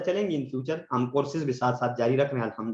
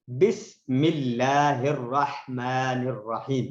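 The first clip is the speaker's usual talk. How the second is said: slow, measured Quran recitation; much slower than usual. Shown as a demonstration. Teacher demonstrating to students, slow recitation. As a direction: recite it slowly, each word drawn out. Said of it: "ہا والی دو غلطیاں ہیں".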